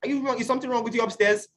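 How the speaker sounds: high-pitched mock scolding; imitating his own angry outburst; retold shout. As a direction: snap at the classmates in high irritation. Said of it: "Then I shouted at them".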